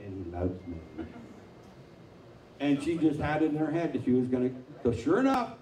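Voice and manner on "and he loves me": slow Southern-accent imitation; imitated Southern woman. Preacher imitating a Southern woman on speakerphone, slow. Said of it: "she kept saying that".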